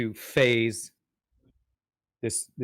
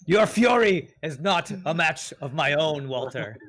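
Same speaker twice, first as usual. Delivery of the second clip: slow, raised-pitch boast; in-character taunt; 4 semitones higher, 3 dB louder than usual. Acted. Player taunting Walter after his failed attack, triumphant boast. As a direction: proclaim it grandly to a rival.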